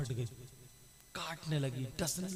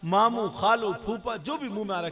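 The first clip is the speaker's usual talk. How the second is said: frantic shout; 7 semitones higher, 8 dB louder than usual. Acted. Preacher dramatizing the girl's screams.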